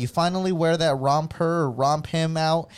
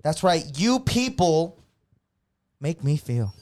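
loud, high-pitched indignation; indignant rant; 5 semitones higher, 3 dB louder than usual. Real, not acted. Continued rant at drivers.

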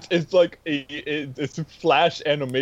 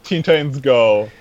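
emphatic; 8 dB louder than usual. Real, not acted. Insisting movie is genius.

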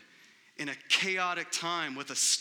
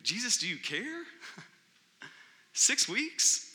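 mock fearful plea; 4 semitones higher than usual. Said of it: "my first response was, was fear".

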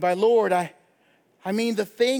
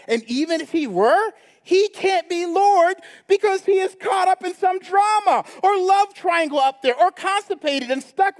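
mock Elijah taunt; 4 semitones higher than usual. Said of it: "So Elijah is like".

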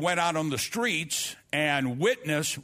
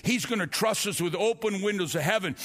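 rising preaching; 4 semitones higher than usual. Acted. Preacher rallies the church about last days, rising fervor. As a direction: lift the congregation toward the climax. Preaching climax over music.

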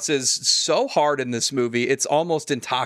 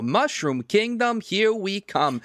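higher, slow cartoon hero line; mock Mario voice; 8 semitones higher, slower than usual. Fan mocking the trailer, quoting the hero in a high slow voice. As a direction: ham up the hero's big catchphrase, high and drawn out. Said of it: "as if you didn't hear him go".

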